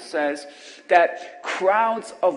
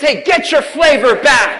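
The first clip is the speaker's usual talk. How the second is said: louder, called out to the neighbors; call-and-response shout; 6 semitones higher, 9 dB louder than usual. Shown as a demonstration. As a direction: call it out across the pews. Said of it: "Shout it to your neighbors".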